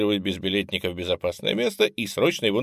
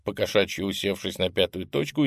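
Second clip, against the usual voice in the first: ordinary delivery, nothing marked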